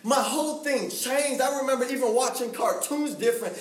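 preacher driving home a changed life; impassioned preaching. Real, not acted. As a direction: build the testimony with mounting fervor. Preacher builds to his point.

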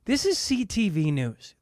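slow, deliberate news anchor; mock newsreader. Shown as a demonstration. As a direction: read it like the evening news. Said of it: "I'm going to say that again".

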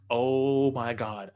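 horrified reaction, acted out in a retelling; retold horror. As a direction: stretch it out slowly, imitating someone horrified. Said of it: "is horrified".

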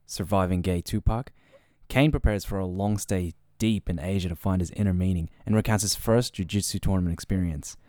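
even, scripted announcer delivery; podcast intro read. Acted. Host summing up today's episode for listeners, scripted intro read.

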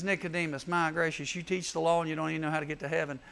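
mild reproof in a kind retelling; kindly. Retold or imitated. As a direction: start soft, then hurry through the gentle reproach. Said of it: "So Jesus kindly says".

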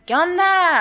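high, loud rural northern drawl; mock a country ranchero twang; ranchero accent. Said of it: "así ranchero".

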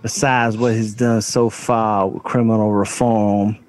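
slow, drawn-out rapper read; rapper voice. Retold or imitated. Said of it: "so I gotta do the rapper voice".

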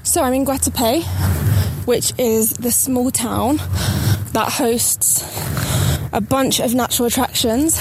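out of breath from the steep steps; panting between phrases, out of breath. Real, not acted. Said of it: "If I sound a bit out of breath".

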